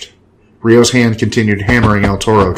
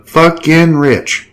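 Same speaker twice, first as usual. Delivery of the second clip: gloating; 6 semitones higher, much slower than usual. A narrator's reading. Gloating promoter slaps narrator's shoulder.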